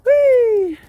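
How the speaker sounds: high, loud playful squeal; excited squeal. Real, not acted. Owner squealing to dog at play, excited. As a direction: squeal with glee as the dog runs.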